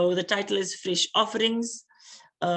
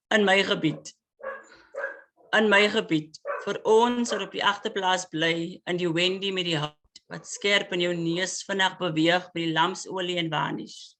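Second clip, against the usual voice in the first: poem reading. Acted. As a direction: deliver it as urgent spoken word. Poet reads Afrikaans poem.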